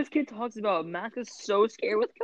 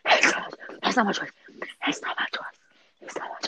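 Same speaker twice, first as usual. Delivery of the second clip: whispered mimicry fading away; mocking whisper; 3 semitones lower, 5 dB quieter than usual. Evan mocking Max's complaint in a fading whisper. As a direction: echo his words in a mock whisper.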